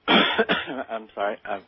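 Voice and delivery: really choking up with admiration, coughing to recover; choked up. Real, not acted. Interviewee apologising to the host for emotion over an admired colleague, choked up. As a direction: voice catching, clearing the throat. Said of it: "choking up on this".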